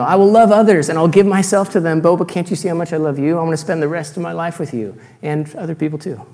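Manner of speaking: hammed-up suitor begging to be forgiven; pleading faithless lover. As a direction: coax her like a cheating suitor.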